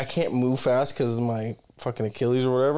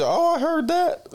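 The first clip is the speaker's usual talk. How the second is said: put-on high, drawn-out accent of the older Black woman; imitated woman's accent; slower than usual. Woman laughing back at his remark, imitated accent. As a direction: slip into her accent, pitched way up. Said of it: "I did it again".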